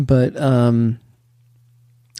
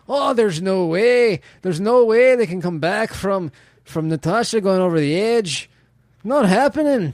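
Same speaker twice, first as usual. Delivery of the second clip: put-on weird hick Irish accent; 4 semitones higher than usual. Podcaster playing it up in hick Irish accent, mock certainty. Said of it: "a weird hick Irish accent".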